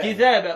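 كذابا with one light dhal; no shadda on the dhal in كذابا; lightened consonant. Shown as a demonstration. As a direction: say كذابا as kidhaba. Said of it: "الكسائي قرأ بالتخفيف".

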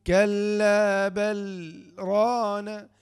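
كلا بل ران chanted slowly, a short silent stop after بل with no breath; sakta pause. Shown as a demonstration. Teacher repeats the sakta example, slow chant. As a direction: hold a tiny breathless gap between بل and ران. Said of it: "سكتة بدون تنفس".

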